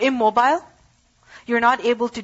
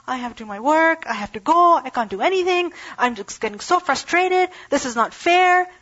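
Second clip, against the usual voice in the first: frustrated complaining; 3 semitones higher than usual. Retold or imitated. Impatient man with cut foot vents his frustration, building higher. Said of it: "who's like".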